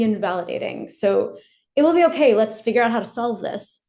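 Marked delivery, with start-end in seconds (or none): 1.8-3.8 brisk reassurance. Retold or imitated. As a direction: brush it off kindly. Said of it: "might shift to something like".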